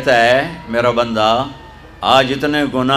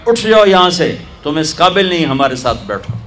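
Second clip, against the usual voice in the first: scornful order; 3 semitones higher, faster than usual. Retold or imitated. Pious women scolding the dancer off their mattress, in a scornful order. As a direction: shoo her off with contempt.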